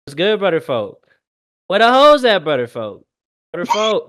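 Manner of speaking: imitating Milwaukee street talk; Milwaukee accent. Imitating Milwaukee videos for friends, light accent. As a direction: play the Milwaukee guy from the videos. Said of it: "you guys never seen the videos".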